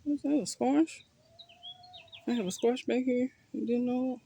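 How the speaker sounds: high, delighted surprise; surprised. Real, not acted. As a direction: discover it with delight. Surprised to find a squash.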